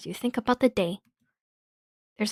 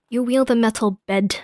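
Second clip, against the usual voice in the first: loud narration; 3 semitones higher, 4 dB louder than usual. Shown as a demonstration. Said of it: "blah, blah, blah, blah".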